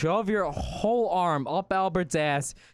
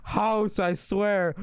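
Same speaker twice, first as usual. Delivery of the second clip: put-on higher, pleading puppet kid; puppet son voice; 5 semitones higher than usual. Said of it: "talk like a puppet".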